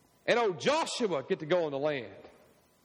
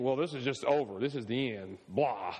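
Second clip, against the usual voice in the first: mock defeatist sigh; 5 semitones lower than usual. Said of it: "instead of just saying".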